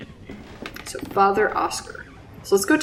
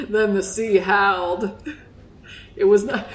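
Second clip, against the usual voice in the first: put-on Southern accent. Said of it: "that's my Southern accent".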